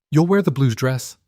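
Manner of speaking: "You'll wear the blue dress" as a high, firm order; an order, not a request; Lady Verena commanding the new bride. Acted. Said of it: "not asking, commanding".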